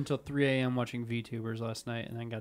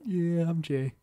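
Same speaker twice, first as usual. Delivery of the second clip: nested impression; much slower than usual. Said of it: "my impression of you doing an impression".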